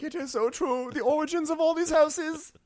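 very high swooning voice; mock gushing. Teasing the cohost about a beautiful speech. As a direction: gush like a moved fan. Mocking tearful admiration.

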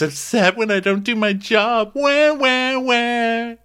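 high-pitched mimicry of a whiner; hammed-up whiny complaint; mocking bitching. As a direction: jeer in a crybaby voice, ending in wails. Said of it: "And Alyssa's bitching".

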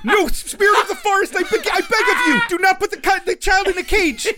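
high, loud, pleading hero; Ashitaka imploring voice. Acted. Hero begging a forest spirit to spare the child, imploring. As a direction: plead desperately in a high, hammed-up voice. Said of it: "that Ashitaka imploring voice".

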